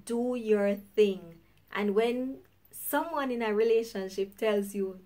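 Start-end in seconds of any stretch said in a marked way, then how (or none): 0.0-1.4 slow dismissive. Retold or imitated. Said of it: "That is basically saying".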